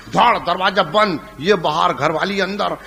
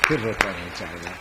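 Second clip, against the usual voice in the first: slow, lower, sorrowful verse; poem recitation; 6 semitones lower than usual. Acted. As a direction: recite it heavy and mournful.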